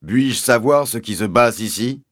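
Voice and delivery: "passe" said as "basse", with a B; P and B swapped. A narrator's reading. Sergeant asking what is going on, P pronounced as B. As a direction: turn the P of "Puis-je" and "passe" into B. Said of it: "l'habitude de remplacer les P par des B".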